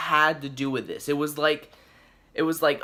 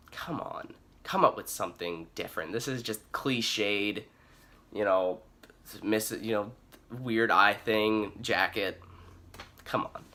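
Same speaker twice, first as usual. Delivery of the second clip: exasperated complaint; 5 semitones lower, 5 dB quieter than usual. Acted. Mock complaint at villain's look.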